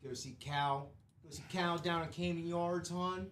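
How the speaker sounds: lightly put-on Baltimore accent, Oreos for orioles; a hint of a Baltimore hon accent. Cohost showing off hometown, in Baltimore accent. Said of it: "Is that a Philly accent?".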